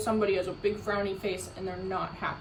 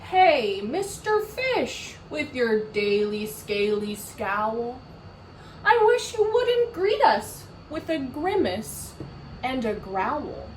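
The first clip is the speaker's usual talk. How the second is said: a hint of a fussy jellyfish. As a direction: gently scold the fish. Jellyfish voiced in story.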